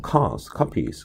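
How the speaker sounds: "cars, copies" slowly, both opening on 'kah'; same first sound. Shown as a demonstration. Teacher showing that cars and copies sound alike, matched British pronunciation. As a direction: stretch "cars" and "copies" to show the shared 'kah'. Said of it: "카라는 발음이 동일하게 느껴진단 말이에요".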